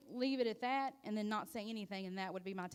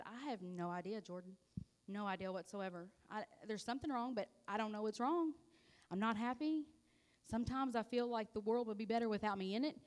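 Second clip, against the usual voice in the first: tearful confession. Retold or imitated. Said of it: "I just started bawling".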